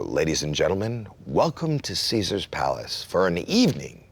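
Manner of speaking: a hint of a booming casino announcer; lightly voiced Vegas announcer, fading to a hush; voice of God. Caesar's Palace announcer introducing a singer, mildly imitated. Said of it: "voice of God, as they call it".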